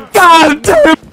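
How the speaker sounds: loud startled swearing; loud curse. Real, not acted. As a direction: blurt it out in shock. Hit by enemy in game.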